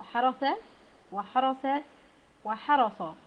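حرس said three times, first with تاء then سين then صاد, each consonant clear; three letter contrast. Shown as a demonstration. Teacher contrasting three letters for students, careful pronunciation. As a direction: spell out حرس three ways, one per letter. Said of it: "بالتاء وبالسين وبالصاد".

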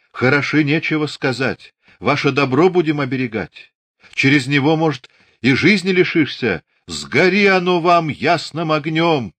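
Darya's voice climbs high and loud; wailing protest. A narrator's reading. Darya wails at the men, high and loud. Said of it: "заголосила Дарья".

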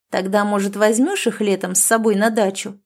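plain reading voice

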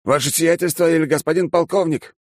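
lightly voiced aristocrat stating his title; automatic reply. A narrator's reading. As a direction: answer by reflex with your formal title. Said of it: "на автомате ответил молодец".

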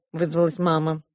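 plain reading voice

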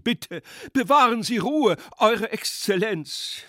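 high, loud urgent plea; anxious pleading. Acted. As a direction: beg the general to stay calm. Guests calming the general. (flehend und aufgeregt)

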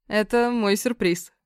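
slow, smiling, self-satisfied; pleased smile. Acted. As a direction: savor the surprise with a smile. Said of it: "с довольной улыбкой сообщил Оз".

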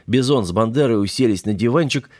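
ordinary delivery

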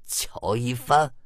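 slow, soft mutter to himself. A narrator's reading. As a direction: mull the name over under your breath. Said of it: "魏琛嘀咕着". (小声慢慢嘀咕)

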